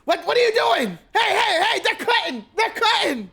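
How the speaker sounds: high, loud shouts of outrage; indignant yelling from back in the line; complaining crowd. Acted. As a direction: holler at people cutting in line. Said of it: "cussing and complaining and things like that".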